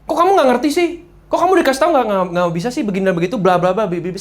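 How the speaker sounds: high-pitched exasperated scolding, mock outburst; hammed-up irritated rant; angry scolding. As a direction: imitate yourself losing your temper at someone who is wrong. Retelling his own angry outbursts.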